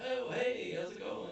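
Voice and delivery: high, bright hello, then hushed; cheery mock greeting. Teacher surprises the cop at the door, cheeky high hello.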